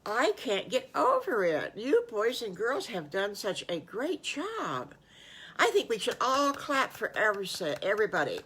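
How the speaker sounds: a hint of a thrilled teacher beaming at the class; delighted teacher. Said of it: "she goes".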